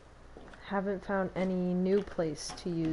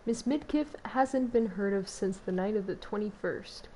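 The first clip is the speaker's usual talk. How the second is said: news reporter voice. Pretend. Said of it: "my true reporter voice".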